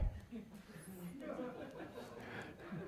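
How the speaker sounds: a high, airy burst of laughter; amused laugh at papa's reply; real laugh. Real, not acted. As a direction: laugh out at the memory.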